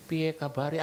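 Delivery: lightly voiced Jokowi on the phone; a hint of the president calling; Jokowi phoning. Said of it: "dipakai di telepon". (menirukan Jokowi di telepon, ringan)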